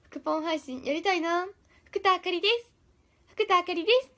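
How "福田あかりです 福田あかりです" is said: Fukuda Akari impression. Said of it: "ってよく言ってる".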